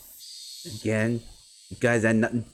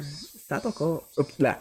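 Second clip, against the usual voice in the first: a hint of the cloying sweet call, slow; drawn-out coaxing name; 4 semitones higher, slower than usual. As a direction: uncle calling Satoko, lightly sweet. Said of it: "in a sweet, bony voice".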